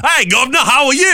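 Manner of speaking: high, loud, hearty backslapping greeting; old-time Boston politician. Retold or imitated. Host imitating an old-style Massachusetts politician, hearty and loud. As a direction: boom out like a 1920s ward boss. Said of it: "talk very much like they're a politician from nineteen twenty-four".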